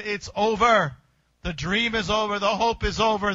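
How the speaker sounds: forceful close of the story; emphatic finality. Acted. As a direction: state it with weight. Sealing the tomb, emphatic.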